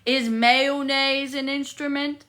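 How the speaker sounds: a hint of Patrick asking; lightly voiced Patrick. Streamer quoting Patrick to chat, slow and lightly voiced. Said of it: "I know it was".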